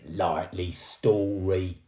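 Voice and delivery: slow sceptical scoff. Acted. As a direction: doubt her openly. Ghost scoffing at girl.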